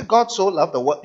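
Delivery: "God so loved the world" rattled off at even speed, no weight on any word; read too quickly. Shown as a demonstration. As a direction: rush the verse flatly, skipping the meaning. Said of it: "if you read it too quickly, you miss the meaning".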